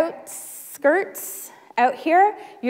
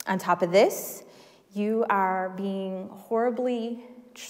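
sermon. Acted. Grave sermon passage.

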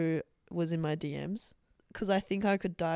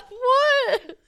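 high, loud laughing squeal; laughing disbelief; 11 dB louder than usual. Real, not acted. Host reacting to odd remark, cracking up incredulous. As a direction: burst out laughing on the word.

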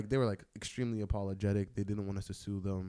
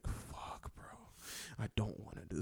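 reluctant groan; 9 dB quieter than usual. Retold or imitated. Reluctant resignation to dad.

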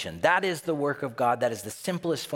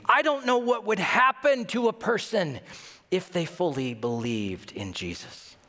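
almost crying; 6 semitones higher than usual. Retold or imitated. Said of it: "He's almost crying".

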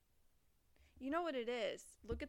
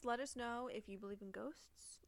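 spooky whisper. Pretend. Spooky outro.

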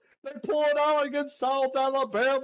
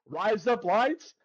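Australian accent demo; 3 semitones lower, slower than usual. Shown as a demonstration. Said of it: "with an Australian accent".

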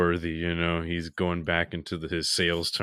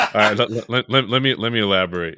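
flustered; 4 semitones higher, 8 dB louder than usual. Real, not acted. Flustered after a mistake.

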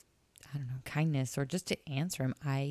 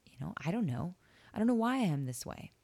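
retold yell; 6 semitones higher than usual.

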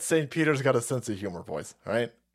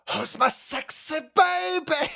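put-on much higher, slow creepy baby talk; creepy falsetto coo; 13 semitones higher, slower than usual. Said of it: "That's so fucking creepy".

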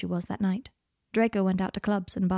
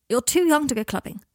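higher, louder reproach; scolding; 5 semitones higher, 5 dB louder than usual. Acted. Guardian telling off an underage girl, scolding.

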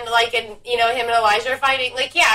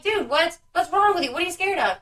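retold disbelief; 6 semitones higher than usual. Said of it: "And I'm like".

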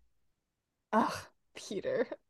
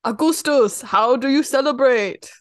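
a light, louder German reporter impression; 3 semitones higher, 6 dB louder than usual. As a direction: quote the German reporter with a mock German accent. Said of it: "That's the German reporter".

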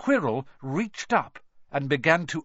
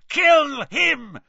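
higher, louder yell; 11 semitones higher, 7 dB louder than usual. A narrator's reading. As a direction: yell it in rage. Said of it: "Voldemort's yells of".

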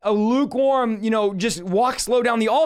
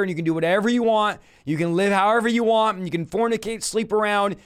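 mock pastor; 4 semitones lower than usual. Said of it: "this is what your pastor would say".

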